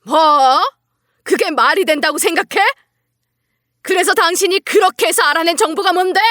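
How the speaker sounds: high-pitched, outraged shouting; angry yell. Acted. CEO confronting his wife over her excuse, angry outburst. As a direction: burst out in indignant disbelief, pitched high. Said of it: "버럭 소리를 질렀어요".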